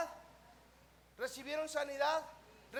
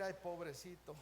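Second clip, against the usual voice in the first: low, soft tender sigh of pity; softly pitying, as if moved by someone; 8 semitones lower, 7 dB quieter than usual. Acted. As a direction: murmur it with gentle compassion. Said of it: "una ternura que va a decir".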